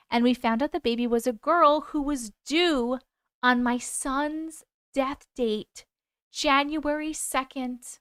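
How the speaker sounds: slow, measured reading with weighted pauses; story narration. A narrator's reading. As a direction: read the story out slowly, letting each phrase land.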